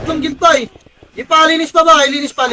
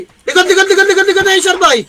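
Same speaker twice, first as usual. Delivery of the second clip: calling back, laughing through the words; laughing as he orders the team back; laughing callout; 3 semitones higher than usual. Real, not acted. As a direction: shout the retreat while cracking up. Laughing while calling a retreat.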